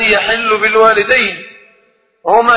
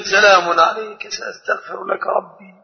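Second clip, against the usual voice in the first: gentle politeness; 5 dB quieter than usual. Retold or imitated. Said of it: "فبكل أدب".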